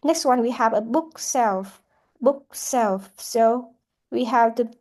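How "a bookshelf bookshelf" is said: "bookshelf" with main stress on "book". Shown as a demonstration. Teacher demonstrates compound noun stress, BOOK stressed in "bookshelf". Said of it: "book is also the first word".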